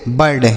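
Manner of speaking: बर्ड, one syllable, 'burd'; I read as A. Shown as a demonstration. Teacher showing students how bird is read, बर्ड with an 'a' vowel. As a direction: say बर्ड with a short 'a' sound for the i. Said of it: "आई का उच्चारण अ हो गया".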